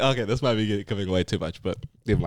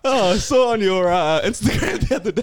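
puppy voice; 8 semitones higher than usual. Acted. Puppy voice again.

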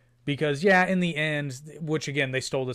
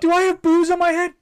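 high mock movie voice; 10 dB louder than usual. Quoting movie line.

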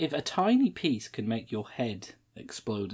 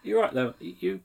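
worried mum; 6 semitones higher than usual. Retold or imitated. Mum asks her sick son.

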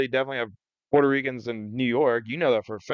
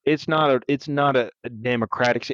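put-on Southern accent. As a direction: scold the outsider like a local. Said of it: "That was more Louisiana".

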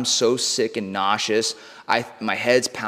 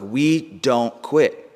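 slow, drawn-out and a bit louder; retold booming voice; much slower than usual. Voice in his head pushing him on, said slowly and firmly. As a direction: spell out we don't quit slowly with force. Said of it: "And it just got louder".

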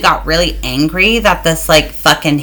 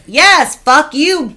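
much higher, mock-fierce; defiant retort; 8 semitones higher, much slower than usual. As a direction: snap back defiantly. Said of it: "So my reaction was".

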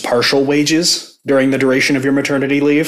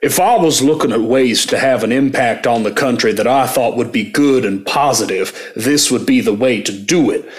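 a faint hint of a Kentucky senator's accent; mock McConnell accent. Cohost reads McConnell quote in a faint mock Kentucky accent. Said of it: "I'm gonna do the accent".

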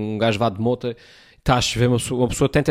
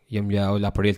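normal talking voice

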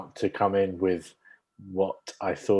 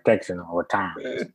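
lightly imitated Texan mumbling; mock Hardy mumble; 3 semitones lower than usual. Co-host mocking the Oscar-nominated performance, mock mumble. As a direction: slur it into near nonsense, mimicking an actor. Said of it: "And the Oscar goes to".

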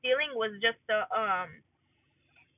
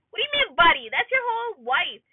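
higher-pitched, indignant challenge; indignant disbelief; 5 semitones higher, 4 dB louder than usual. Real, not acted. Scolding a man who calls his wife buddy, indignant. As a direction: call him out, pitch raised.

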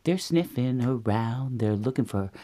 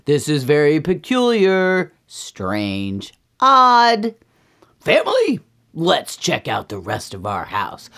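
perturbed Papa Bear; 2 semitones higher, 6 dB louder than usual. Acted. Papa Bear addresses the family, emphatic bafflement. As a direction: declare each word like a baffled bear. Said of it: "And Papa Bear goes".

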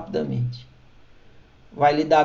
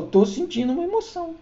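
"Tô sentindo uma emoção" said much higher and softer; gently high inner voice naming the feeling; higher, soft self-talk; 10 semitones higher, 4 dB quieter than usual. Shown as a demonstration. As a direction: lift the voice up for this calm self-note.

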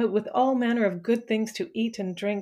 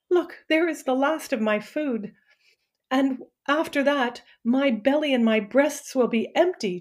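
higher, louder desperate plea; desperate pleading; 4 semitones higher, 4 dB louder than usual. Acted. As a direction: beg with nothing left to give. Starving Myrna pleads with queen.

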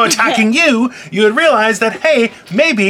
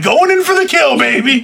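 pitched-up imitation of a gleeful attacker; mock gleeful attack; 5 semitones higher than usual. Host imitating co-host with whale spear, mock gleeful. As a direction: crow it high, mimicking her.

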